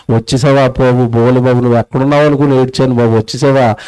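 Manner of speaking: low-pitched, acted relief; relieved baby. Preacher voices a baby greeting its returned maker, low relieved murmur. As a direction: mildly voice a soothed child, pitch well down.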